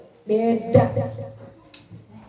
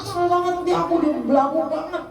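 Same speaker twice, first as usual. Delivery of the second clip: put-on fast annoyed child; 5 semitones higher, much faster than usual. Shown as a demonstration. Child voiced complaining fast.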